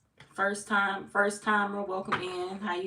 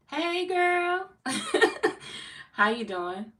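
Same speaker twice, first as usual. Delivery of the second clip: excited squeal; 12 semitones higher, 5 dB louder, much slower than usual. Real, not acted. Greeting a viewer, squealing.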